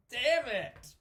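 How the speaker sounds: exclaimed curse. Real, not acted. Laughing outburst mid-confession.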